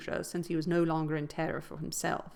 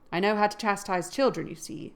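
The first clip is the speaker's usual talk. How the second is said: grim; 3 dB louder than usual. Acted. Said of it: "said the scoundrel grimly".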